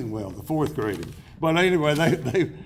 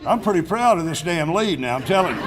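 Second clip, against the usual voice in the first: proud laughing; 5 dB louder, faster than usual. Real, not acted. Proud of his newspaper lead.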